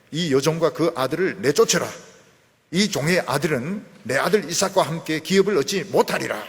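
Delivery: loud, firm reading of the demand; Sarah's demand. Acted. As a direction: declare it as the angry mother. (사라의 단호한 요구, 크게)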